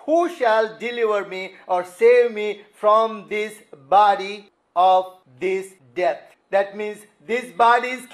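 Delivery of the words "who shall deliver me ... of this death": crying sinner. Acted. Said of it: "this is what the natural man cries".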